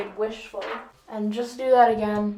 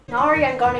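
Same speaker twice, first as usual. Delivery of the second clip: louder, clumsy Scottish attempt; badly faked Scottish accent; 2 semitones higher, 5 dB louder than usual. Shown as a demonstration. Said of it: "that was the worst Scottish".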